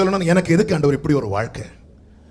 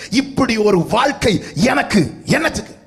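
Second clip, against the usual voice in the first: hammed-up complainer rising in pitch; mocking complaint; 5 semitones higher than usual. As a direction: imitate people grumbling about church. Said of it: "அநேகர் வாயிலிருந்து வருகிற வார்த்தை".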